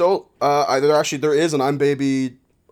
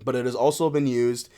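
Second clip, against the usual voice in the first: measured encyclopedia reading; read-aloud article; 3 semitones lower, 3 dB quieter than usual. Acted. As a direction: read it out like a formal entry. Reads a web article aloud.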